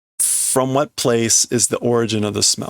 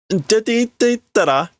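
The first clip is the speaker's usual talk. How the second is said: put-on much higher, frustrated girl's voice; 10 semitones higher than usual. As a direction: snap at him to leave, high. Girl frustrated.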